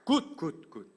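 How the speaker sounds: an excited "good, good"; delighted praise. Acted. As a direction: cheer him on like a proud teacher. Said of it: "예수님이 이렇게 하시죠".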